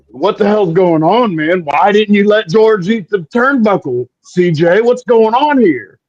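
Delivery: puzzled wrestlers demanding answers; confused locker room voice. Retold or imitated.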